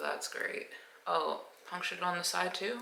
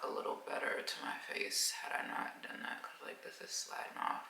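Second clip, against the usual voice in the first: whispering; 7 dB quieter than usual. Real, not acted. Mask sliding, whispering to camera.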